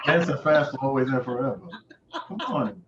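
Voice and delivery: fast words through laughter; laughing. Real, not acted. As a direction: joke while still laughing. Laughing while joking.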